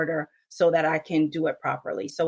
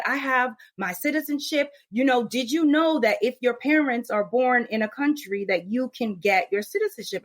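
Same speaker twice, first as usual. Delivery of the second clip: podcaster quote; 6 semitones higher than usual. Retold or imitated. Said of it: "And then she said".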